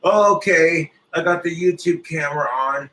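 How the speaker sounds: mock the fake YouTube persona; mocking fake YouTuber. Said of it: "these other motherfuckers who are like".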